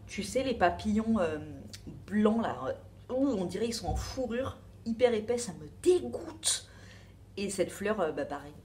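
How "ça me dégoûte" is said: slow, drawn-out disgust on dégoûte. Real, not acted. Telling her viewer about the moths, openly disgusted. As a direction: really lean into dégoûte, falling. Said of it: "ça me dégoûte un peu".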